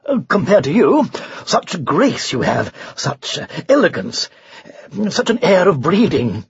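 lightly voiced knight, effusive praise; flattering knight. Knight compliments the unicorn on its grace, gently flattering. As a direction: lay on the courtly flattery a little.

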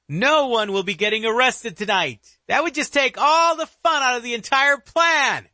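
high, eerie villain voice from darkness; dark whisper behind you. Acted. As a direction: menace them from the shadows, gleeful. Killer's voice from the darkness.

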